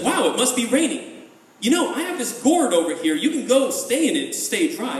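innocent, singled-out friendly offer to lure them; feigned helpfulness. Acted. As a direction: play the helpful little trickster. Spider feigns rain to trick hornets.

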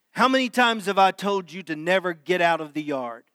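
a mild mock yell; hint of a father's shout, kept reined in; mild retold yell. Father yelling at his toddler son, mild mock yell. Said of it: "I yelled at Brad".

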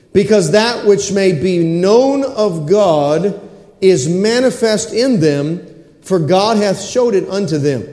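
slow, weighty reading of the verse; scripture reading. Acted. Pastor reads Romans to the congregation, slow and solemn. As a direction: let each word of scripture land slowly.

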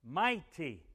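"Mighty" punched out by itself; stress on MIGHTY. Shown as a demonstration. Preacher savoring his favorite word, stressed "Mighty". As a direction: lean hard on "Mighty". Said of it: "I like to say it that way".

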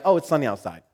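light breezy remark about the weather; mildly imitated careless doctor; casual small talk. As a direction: toss it off like nothing. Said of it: "That's, that's how he said it".

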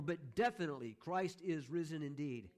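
DEFINITELY and IS stressed, slowing down; emphatic. Shown as a demonstration. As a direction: spell out the certainty with weight on "is". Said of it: "that emphasis there".

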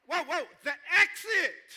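loud, high joking holler; big, high "whoa" to the room; mock alarmed shout. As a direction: call out in playful alarm, laughing. Jokingly calls out toward the exit.

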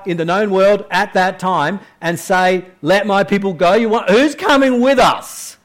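a hint of Moses objecting to God; incredulous Moses. Voicing Moses protesting to God.

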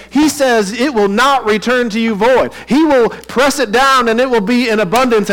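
high, loud, booming Southern revival preacher. Retold or imitated. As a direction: ham up a prosperity preacher selling the seed offering. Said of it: "this is a Southern preacher".

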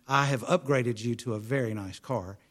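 lightly imitated French-accented English. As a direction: retell her in a careful French accent. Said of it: "in this beautiful French, uh, English accent".

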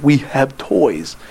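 spelled out very slowly; slow exaggerated mouthing. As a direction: stretch each word for someone far away. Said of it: "I said".

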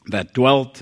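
"dwelt" hit firmly, standing out from "that"; stress on dwelt. Shown as a demonstration. Preacher quoting Paul on sincere faith, stress on "dwelt". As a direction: put the weight on "dwelt". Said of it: "I emphasize that word".

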